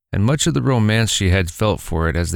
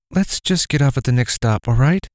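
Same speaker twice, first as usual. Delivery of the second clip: higher, urging mother; pleading mother voice; 5 semitones higher than usual. Acted. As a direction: press her husband gently. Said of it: "the mother said".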